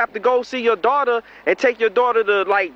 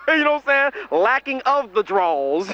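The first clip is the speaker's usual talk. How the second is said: laughing; 3 semitones higher than usual. Acted. Laughing at own joke.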